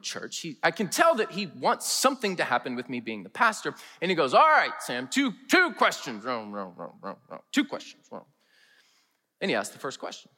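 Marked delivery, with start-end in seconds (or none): 4.3-8.2 put-on thick rural Kentucky accent. Pastor imitating church elder Herbie's thick rural Kentucky accent, mumbled. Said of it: "very thick accent".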